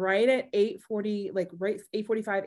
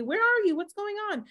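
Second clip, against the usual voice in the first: high-pitched retold questions; imitated worried texters; 11 semitones higher than usual. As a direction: mimic nosy texts in a high voice. Voicing people texting her.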